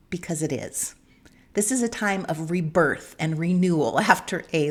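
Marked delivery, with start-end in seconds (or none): 0.1-0.9 a soft breathy whisper, almost unvoiced. Real, not acted. Host confides to listeners that spring is a fresh start, whispered. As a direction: let it drop to a whisper as a confiding aside.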